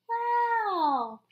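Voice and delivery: high, loud amazed wow; excited wow. Acted. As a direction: burst out in delight for the child. Amazed at the dots.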